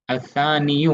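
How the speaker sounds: असानियु ending in a clear "-yu"; dammah pronounced. Shown as a demonstration. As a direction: sound the final short u of असानियु. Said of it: "होना चाहिए था लेकिन पढ़ते नहीं". (असानियु के अंत में दम्मा के साथ)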